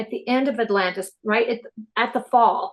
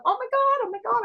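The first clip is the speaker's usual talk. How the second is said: put-on high, gasping oh my God like a thrilled child; be the amazed little kid; retold childlike excitement; 13 semitones higher, faster than usual. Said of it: "I'm like this little kid going".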